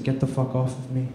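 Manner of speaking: a hint of the sister muttering at him; sister brushing off. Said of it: "She said".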